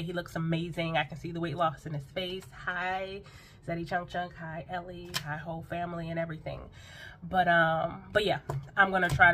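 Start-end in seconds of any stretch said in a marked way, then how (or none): 2.6-6.6 a softer, sweet little wave hello. Real, not acted. Vlogger greeting Zaddy Chunk Chunk and his family, softly. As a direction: coo hello like waving at the camera.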